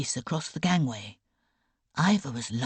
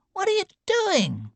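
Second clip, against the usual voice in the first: much higher startled question; alarmed outcry; 4 dB louder than usual. A narrator's reading. Sick boy alarmed as aunt pours medicine away, high startled. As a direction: shoot up in alarm.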